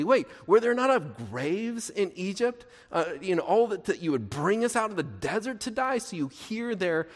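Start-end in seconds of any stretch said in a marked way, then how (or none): 0.0-6.0 mock-incredulous, lifted in pitch; lightly hammed-up disbelief; sarcastic. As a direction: act out a sarcastic complaint. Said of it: "they're saying sarcastically".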